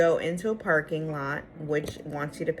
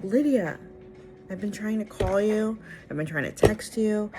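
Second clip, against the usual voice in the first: higher, louder acted protest; retold exasperated complaint; 5 semitones higher, 4 dB louder than usual. Late client finds Lydia, exasperated retold complaint. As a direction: plead your case, raised in pitch and volume. Re-enacting confronting Lydia, upset.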